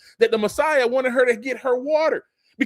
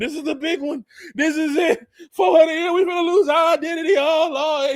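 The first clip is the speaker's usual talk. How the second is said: Fred Sanford; 7 semitones higher than usual. Retold or imitated. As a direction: ham up a fake heart-attack panic. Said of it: "like Fred Sanford".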